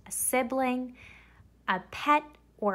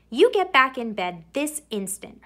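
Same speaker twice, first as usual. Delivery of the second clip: louder firm motherly command; ordering mother; 3 semitones higher, 5 dB louder than usual. Acted. Mother ordering striped Camilla to bed, firm and louder. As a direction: order her to bed like a stern mom. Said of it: "her mother ordered".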